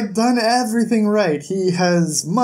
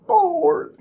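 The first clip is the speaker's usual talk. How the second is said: exaggerated high whine on bored; 12 semitones higher than usual. Real, not acted. Vlogger complaining about the slow chapter, whining bored. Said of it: "and I am just".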